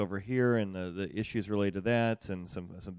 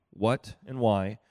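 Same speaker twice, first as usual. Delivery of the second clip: slow questioning; 4 dB louder, much slower than usual. Shown as a demonstration. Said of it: "I want you to kinda hear yourself use these phrases".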